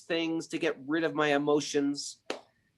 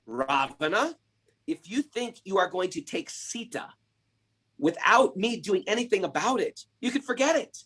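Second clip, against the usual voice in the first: bold challenge; 5 semitones higher than usual. Acted. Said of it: "he said very boldly".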